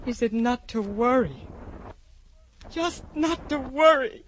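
tearful. Acted. Tearful slow recall.

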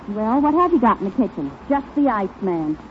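ordinary delivery

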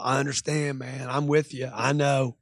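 low, soft placating voice; calm, rational. Acted. Salesman agreeing with upset customer, calm and rational. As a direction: soothe the upset customer, keep it cool. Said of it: "be calm, stay rational".

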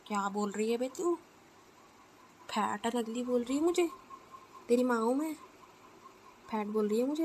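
loud, indignant mother; outraged scolding. Acted. Insulted mother scolds her daughter.

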